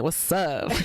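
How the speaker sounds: playful mock Boston accent. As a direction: stretch it out in a put-on Boston accent. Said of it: "a nice Boston accent".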